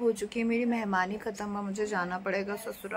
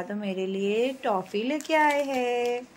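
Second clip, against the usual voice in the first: put-on slow, stretched-out child-directed line; feed the child the line slowly, drawing out the end; prompting a child; slower than usual. Mother prompting son about papa's toffee, slow and coaxing.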